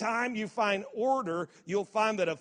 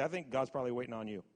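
model line for congregation; 6 semitones lower, 7 dB quieter, much faster than usual. Shown as a demonstration. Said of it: "Look at your neighbor and say".

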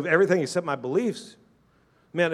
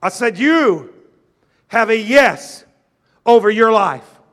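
emphatic repeat; 4 semitones higher, 7 dB louder than usual. Shown as a demonstration. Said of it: "repeats the line louder".

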